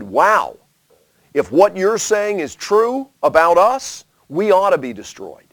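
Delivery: mildly voiced sincere humility; humble reply. Eastern tribes answering their accusers, humble and earnest. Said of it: "They said".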